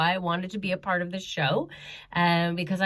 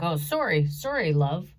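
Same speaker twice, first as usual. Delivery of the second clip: understated instinctive sorry from a mugger; lightly imitated reflex apology; mild retold apology. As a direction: apologize back offhand, at ordinary pitch. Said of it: "he apologized back".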